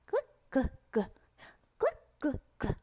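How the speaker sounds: tiny high-pitched syllables; playful high voice for a pupil to copy; squeaky drill voice. Shown as a demonstration. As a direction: pop each sound out very high. Demo of varied sound drill.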